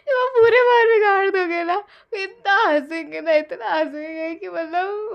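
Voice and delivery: can barely get it out for laughing. Real, not acted. Reader cracking up imagining messed-up hair, laughing.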